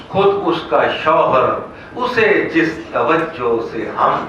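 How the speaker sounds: measured ghazal-style recitation; comic verse recital. Acted. Poet confessing as a so-called decent man, recited in verse. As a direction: recite in rhythm, pausing after each half line.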